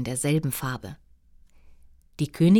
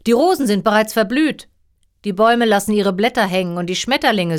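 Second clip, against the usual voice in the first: louder, fast upset king; a king working himself up; agitated king; 3 semitones higher, 4 dB louder than usual. Acted. King complains about garden.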